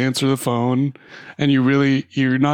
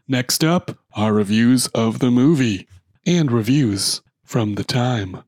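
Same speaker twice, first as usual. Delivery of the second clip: announcer voice. Acted. Podcast intro read.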